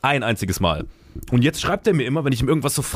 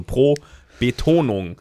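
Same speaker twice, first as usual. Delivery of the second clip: pro, a pause, then Betonung; split after pro; much slower than usual. Shown as a demonstration. Co-host correcting the word, pro and Betonung set apart by a pause. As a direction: separate pro from Betonung with a clear break. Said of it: "Du hast aber pro Betonung gesagt".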